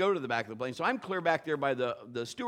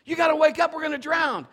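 higher, louder alarmed shout; disciples shouting; 9 semitones higher, 6 dB louder than usual. Retold or imitated. Disciples waking sleeping Jesus, higher loud shout. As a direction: yell to wake him up. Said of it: "they're like".

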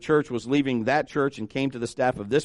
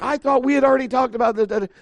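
high-pitched mock protest; acted aggrieved complaint; indignant venting; 7 semitones higher than usual. Acted pastor still venting.

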